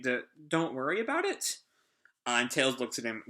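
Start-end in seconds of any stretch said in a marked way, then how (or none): 0.5-1.6 questioningly. Retold or imitated.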